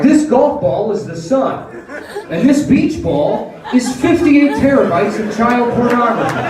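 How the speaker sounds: lightly hammed-up science show host; Neil deGrasse Tyson explaining. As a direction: marvel at it like a TV astronomer. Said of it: "By being like".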